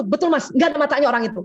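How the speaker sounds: quick eager agreement, siding with the husband; supportive agreeing wife. Shown as a demonstration. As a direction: back him up brightly and fast. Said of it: "gitu caranya". (istri mendukung suami, cepat mengiyakan)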